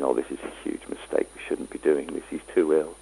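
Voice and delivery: soft, hushed worry said almost to herself; worried inner thought. Retold or imitated. Watching a frail old man, a medium's hushed worry. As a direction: let the doubt drop quietly under the breath.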